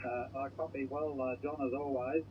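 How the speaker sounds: thin, crackly voice over a radio link; crackly military radio. Real, not acted. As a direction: speak as if through a noisy radio receiver. Distant station heard over radio.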